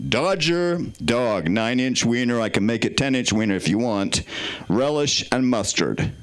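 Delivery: low-pitched put-on American voice; American accent. Shown as a demonstration. Comedian selling a hot dog to the crowd, in an American accent. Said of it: "Can I do American menu with an American voice?".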